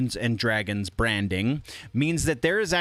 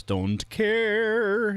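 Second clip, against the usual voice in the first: dismissive; 9 semitones higher than usual. Acted. Dismissive aside on news.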